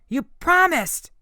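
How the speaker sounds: slow, high, loud cry of betrayal; anguished shout. A narrator's reading. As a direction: hurl it at him as a wounded boy. Nico's betrayed outburst at Percy.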